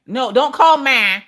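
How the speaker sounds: mock alarm at the device; exasperated correction. Correcting Echo's wrong call.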